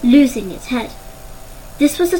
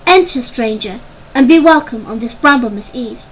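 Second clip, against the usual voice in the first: formal call; 4 dB louder than usual. Acted. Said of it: "called out the traditional greeting".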